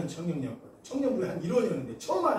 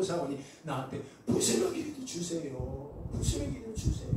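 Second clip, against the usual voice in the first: pleading; 4 dB quieter than usual. Acted. Woman begs for crumbs.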